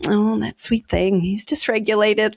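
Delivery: slow, tender sympathy; compassionate. Acted. Speaker pitying a reckless driver, compassionate. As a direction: coo it gently, drawing out the pity. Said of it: "I'm so much more compassionate to people".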